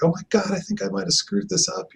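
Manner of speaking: high, panicky imitation of his daughter; mock scared daughter. Daughter fresh from her law final, imitated as mock panic. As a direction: squeak it out like a worried student. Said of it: "and she's scared".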